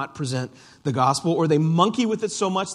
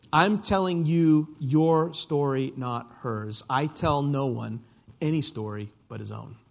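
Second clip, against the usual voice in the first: lion gently explaining. Acted. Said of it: "says the lion".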